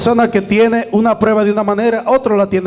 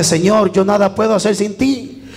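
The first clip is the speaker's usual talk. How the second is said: fervent prayer, building; 3 semitones higher than usual. Shown as a demonstration. Preacher models a prayer for the congregation, starting hushed and building to a fervent cry. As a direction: pour your heart out to God, rising to a cry. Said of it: "Vaya ahí delante".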